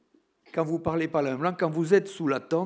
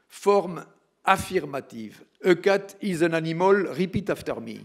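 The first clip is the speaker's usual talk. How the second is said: hammed-up schoolteacher dictating slowly; imitating the English teacher; 3 semitones higher, 5 dB louder, slower than usual. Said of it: "un exemple des premiers cours".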